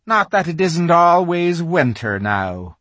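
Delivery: a slow, gloomy aside from the fawn. A narrator's reading. Fawn grumbling to Lucy about endless winter, gloomily. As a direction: sigh the words out, downcast. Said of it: "he added gloomily".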